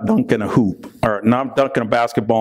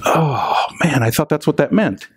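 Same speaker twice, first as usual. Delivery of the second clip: mock whimper; 2 semitones higher than usual. Mock disappointment after the joke.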